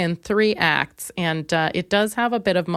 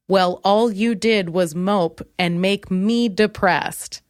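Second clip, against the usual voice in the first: ordinary talk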